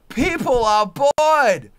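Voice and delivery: enraged repeat, drawn out; slow furious shout. Real, not acted. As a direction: yell each word of people are bored. Rant peak repeat.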